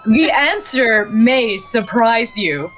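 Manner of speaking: slow, dramatic news anchor; newscaster teaser. Acted. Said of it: "I love doing a newscaster voice".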